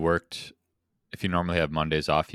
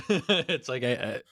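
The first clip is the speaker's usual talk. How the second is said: high laughing whine; 10 semitones higher, 8 dB louder than usual. Pretend. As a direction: squeal it out through laughter. Acting out tech trouble, laughing.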